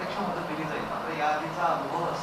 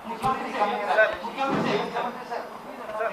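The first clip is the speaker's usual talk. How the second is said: calling out; 4 semitones higher, 5 dB louder than usual. Real, not acted. Reporter calling for attention.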